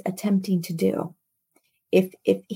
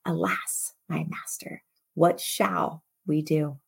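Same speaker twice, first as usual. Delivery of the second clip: frightened servant. Acted. Attendant pleading with his master, hushed and fearful. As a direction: let the fear drain the voice away.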